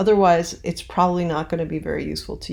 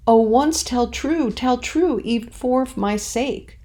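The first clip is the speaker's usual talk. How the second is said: higher and louder, slow plea; emphatic delivery; 6 semitones higher, 4 dB louder, slower than usual. Shown as a demonstration. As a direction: cry it out as a passionate plea. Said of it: "did you see what I did?".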